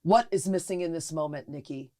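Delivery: lightly voiced wise friend; imitating Carl. Friend Carl asking Nikki, a lightly voiced calm question. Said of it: "He's always like".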